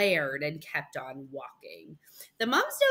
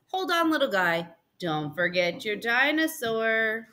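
friendly bakery lady; 2 semitones higher than usual. Acted. Bakery lady reminding a boy about his dinosaur, lightly voiced. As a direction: call kindly after a young customer.

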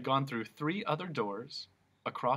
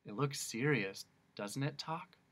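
sad; 2 semitones higher, 4 dB quieter than usual. Acted. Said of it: "said Milo very sadly".

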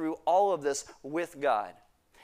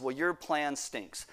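blunt retort; 3 dB quieter, slower than usual. Retold or imitated. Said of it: "Habakkuk's response is".

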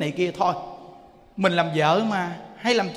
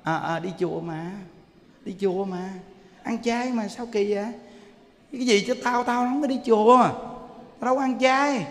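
sneering neighbor; 3 semitones higher than usual. Retold or imitated. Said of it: "Ta nói vậy nè".

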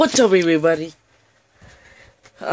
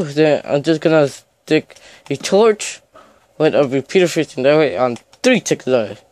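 phone held in teeth. Real, not acted. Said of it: "So let me hold this in my mouth".

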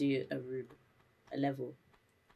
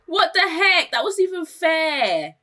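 indignant; 10 semitones higher, 8 dB louder, slower than usual. Real, not acted. Frustrated at game.

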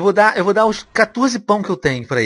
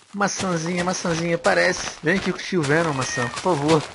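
soft sing-out to something small; playful coaxing; 5 dB quieter than usual. Pretend. Player begs an apple to appear, soft coaxing. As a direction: coax it out gently, softly pleading.

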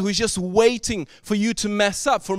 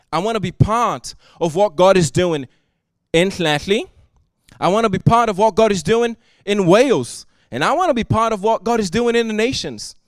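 building fervour; 4 dB louder than usual. Real, not acted. Preacher rising through repeated lines.

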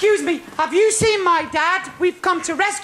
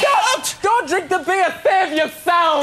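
raised, urgent stop; urgent warning shout. Acted. Pinocchio warning the boys off the beer, urgent shout.

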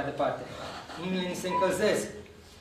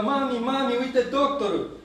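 put-on high, louder call of excited kids; children shouting; 6 semitones higher, 3 dB louder, slower than usual. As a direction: shout it out like a kid spotting him. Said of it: "copiii țipă". (strigăt de copil entuziasmat)

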